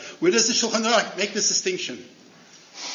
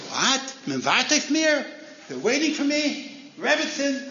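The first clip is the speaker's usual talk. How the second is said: startled, suddenly moved; astonished; 7 semitones higher than usual. Acted. Rabbi learning twenty-five thousand wait for him, astonished high voice. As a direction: pitch jumps high, amazed disbelief. Rabbi hears people are waiting.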